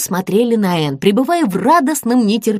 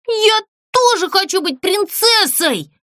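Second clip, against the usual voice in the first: demanding shout; 10 semitones higher than usual. Acted. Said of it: "закричала Злюня".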